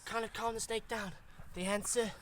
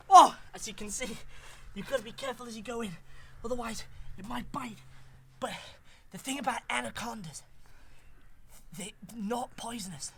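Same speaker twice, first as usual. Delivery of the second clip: lightly hammed Australian wildlife presenter; put-on Australian, instructing young explorers; bad Australian accent. Wildlife explorer teaching boys and girls about anacondas, bad Australian accent. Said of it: "his Australian cousin, who's not got a very good Australian accent".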